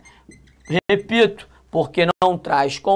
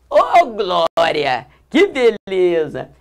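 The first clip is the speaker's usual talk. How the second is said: mock hallelujah; 3 dB louder, slower than usual. Mock praise after blessings.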